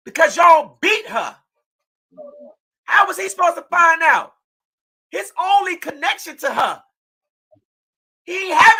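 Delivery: furious shout. Real, not acted. Mother accusing defendants in court.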